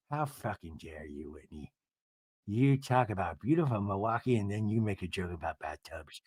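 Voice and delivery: low, hushed mock outrage; indignant Meredith impression. Castmate scolding Whitney over bathtub joke, low hushed indignation. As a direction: imitate a quietly offended reality star.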